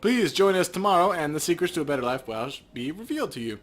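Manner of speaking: high, loud announcement, rushing the end; hammed-up recruiter pitch; smooth recruiter. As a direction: invite them like a cult preacher. Patrick's recruiting pitch continues.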